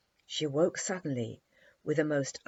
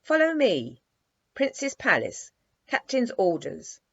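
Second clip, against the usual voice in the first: loud, clipped military commands in three jerks; jerky soldier's orders; 6 semitones higher, 7 dB louder than usual. A narrator's reading. Wooden soldier ordering Dimples from bed, stiff jerky commands. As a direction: bark it like a wooden toy soldier. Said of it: "in three jerky moves".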